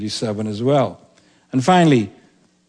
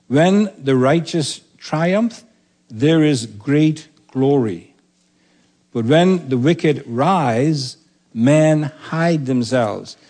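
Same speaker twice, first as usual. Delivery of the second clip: slow, weighty recitation of the proverb; preacher reciting Proverbs to the congregation; solemn scripture reading; slower than usual. Acted. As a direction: read it slow like scripture from the pulpit. Reads proverb in solemn cadence.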